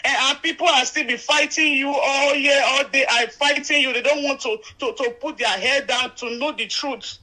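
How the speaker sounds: pleading through rising tears; real tearful distress. Real, not acted. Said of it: "Don't cry".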